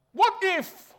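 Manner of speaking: high, worried what if; anxious what if. Acted. Preacher voicing Moses' worry, high and anxious. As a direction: squeak out the worry.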